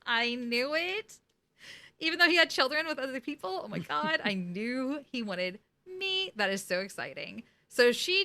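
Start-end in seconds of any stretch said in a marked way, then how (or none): 0.0-6.3 hammed-up lovestruck delight; smitten gushing. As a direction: gush like a teen whose crush likes her back. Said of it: "She's like".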